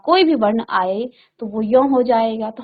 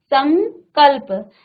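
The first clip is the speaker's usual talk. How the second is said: stretched slowly, syllable by syllable; slow demo for the pupils; slow model reading; much slower than usual. Shown as a demonstration. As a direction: draw the word out for the children. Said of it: "तो अब पढ़ते कैसे हैं".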